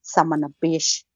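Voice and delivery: put-on low, slow old-timer curse; grandparent cussing. Mocking his grandparents' cussing, low and slow. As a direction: grumble it like a grandpa. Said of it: "cussing like my grandparents".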